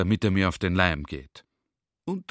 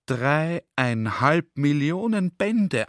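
slow, weighty, a bit higher; librarian's answer; 5 semitones higher, 3 dB louder, much slower than usual. Retold or imitated. The librarian tells the general the number, slow and weighty. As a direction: spell out the huge number slowly. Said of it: "antwortet er".

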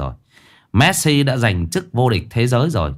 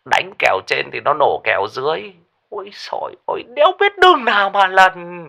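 lamenting. Acted. Lão Lý lamenting lost bets on phone, groaning. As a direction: moan about losing bets. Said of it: "than thở".

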